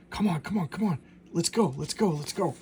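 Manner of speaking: quick repeated calls to get moving, mildly acted; urging on. Retelling a character hurrying someone along, lightly urgent.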